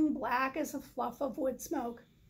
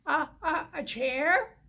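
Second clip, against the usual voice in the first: stammering; 4 dB louder than usual. Acted. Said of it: "Turkey stammered".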